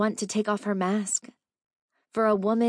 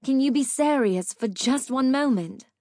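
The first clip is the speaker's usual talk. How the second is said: exasperated plea; 6 semitones higher than usual. Acted. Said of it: "She sighed".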